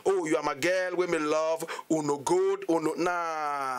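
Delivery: lightly put-on Ghanaian patois singer line, slowing on "uno nah"; mock Ghanaian patois. Guest mocking a Ghanaian artist's wrong patois, light mock accent. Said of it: "Dabi, you can't say that".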